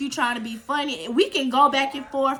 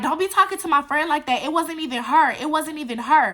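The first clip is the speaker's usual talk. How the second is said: higher-pitched protest on a friend's behalf; retold defensive scolding; 4 semitones higher than usual. Friend standing up for her to the boy, indignant. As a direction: step in and tell him off.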